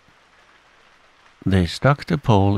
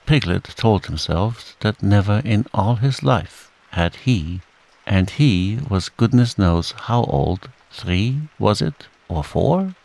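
ordinary delivery

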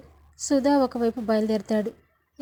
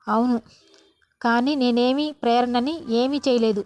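loud denial; 7 dB louder than usual. A narrator's reading.

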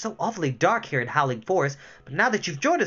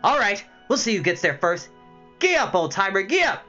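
louder eager gee up; excited urging; 5 semitones higher, 4 dB louder than usual. Acted. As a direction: spur on the snail cheerfully. Tiny urging his snail.

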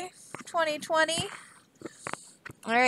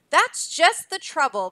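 bellowing king; 4 semitones higher, 5 dB louder than usual. Acted. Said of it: "bellowed the king".

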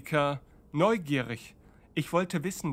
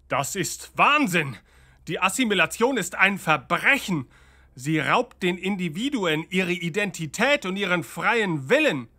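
outraged; 3 dB louder than usual. Acted. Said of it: "empört".

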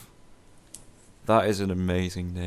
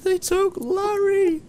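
much higher, slow melodramatic wail; mock dramatic outrage; 5 dB louder, slower than usual. Player wailing melodramatically that Larry was taken. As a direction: wail it like a stage tragedy.

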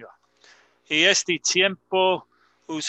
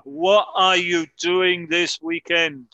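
reading slowly; 2 semitones higher, 4 dB louder, slower than usual. Shown as a demonstration. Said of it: "Esta ocasión tenemos una pregunta".

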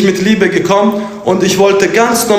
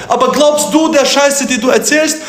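raised, high, angry demand; shouted accusation; 6 semitones higher than usual. Real, not acted. Angry streamer shouting his question at a rival. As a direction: hurl the question at him.

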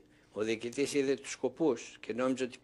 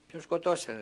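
surprised disbelief; 5 semitones higher, 4 dB louder than usual. Retold or imitated. Disbelief at news of a killing.

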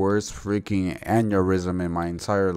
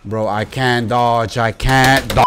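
frustrated yell; 6 dB louder, slower than usual. Real, not acted. Gamer failing to dodge attacks.

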